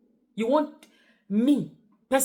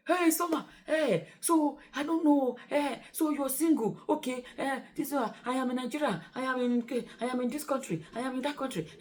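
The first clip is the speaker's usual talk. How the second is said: lightly voiced hesitant admirer, softer; mock suitor; 3 semitones higher, 4 dB quieter than usual. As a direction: imitate a fumbling suitor under your breath. Voices hesitant suitors pitching themselves.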